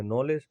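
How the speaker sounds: नॉलेज said as "nolej", the k left silent; teacher reads नॉलेज with no k sound at the start; silent k demo. Shown as a demonstration. Teacher shows class the silent k in नॉलेज. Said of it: "हम लिखते तो हैं के N O W L E D G, लेकिन पढ़ते हैं".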